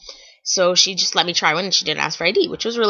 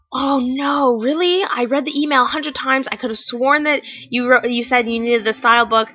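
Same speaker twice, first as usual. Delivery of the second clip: higher, lightly voiced flustered seller; apologetic seller; 6 semitones higher than usual. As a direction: mimic her surprised apology.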